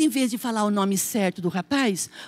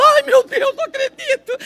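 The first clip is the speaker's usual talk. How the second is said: mock surprise; 13 semitones higher, 3 dB louder than usual. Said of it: "eu falo".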